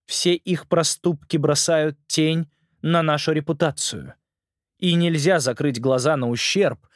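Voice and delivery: slow, lightly voiced stern queen; a hint of a cold, commanding queen. Black Widow queen speaks.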